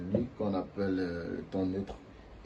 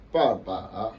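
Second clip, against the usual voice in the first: papa with a dip then rise at the end; papa with dipping tone; third tone; 4 dB louder than usual. Shown as a demonstration. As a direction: bend the last "pa" of "papa" down and up. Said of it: "je n'ai pas dit".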